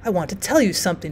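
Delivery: soft, confiding near-whisper; old woman softly drawing someone in. A narrator's reading. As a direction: drop to a hushed, secretive murmur. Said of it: "she whispered".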